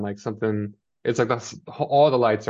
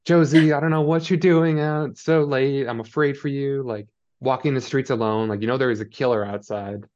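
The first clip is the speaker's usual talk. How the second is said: mock lecturing mom; 4 semitones higher than usual. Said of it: "lecture time from Mommy Mare".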